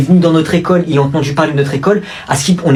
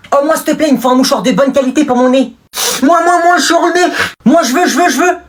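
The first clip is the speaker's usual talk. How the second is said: mock pleading; 12 semitones higher, faster than usual. Pupil begging the boy for tissues, high and pleading. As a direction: beg like a needy child.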